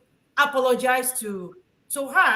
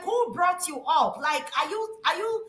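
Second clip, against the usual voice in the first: retold angry scolding; 3 semitones higher than usual. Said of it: "I'm like".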